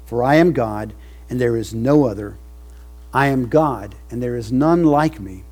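full-force preaching. Acted. Preacher to his covenant people, full-force preaching. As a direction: lift it up and thunder it.

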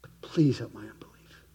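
soft whispered plea; whispered prayer. Acted. Believer crying out to gracious God, whispered plea. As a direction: let the plea fall to a whisper.

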